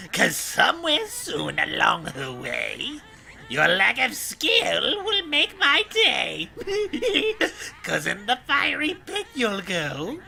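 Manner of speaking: lightly voiced rhyming witch; a hint of cackling Gruntilda; Grunty witch voice. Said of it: the speaker is doing Grunty.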